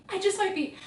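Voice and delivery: playful high repeat. Real, not acted. Admitting she is a Colleen Hoover fan, coy high repeat.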